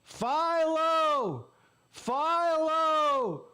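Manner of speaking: high, drawn-out heckler's yell; drunk fan's yell. Retold or imitated. Drunk fan behind him heckling the team, yelling high and long. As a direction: holler it like an obnoxious fan. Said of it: "He yelled".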